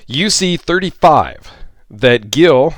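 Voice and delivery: ordinary talk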